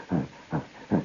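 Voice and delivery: low, soft huffing; short grunted huffs of a running tiger; imitated tiger noise. Storyteller imitating a tiger running at him, huffing. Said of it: "he makes a funny sound".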